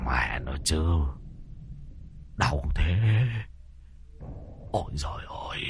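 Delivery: pained muttering. A narrator's reading. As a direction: mutter through the pain after a fall. Master hurt after fall.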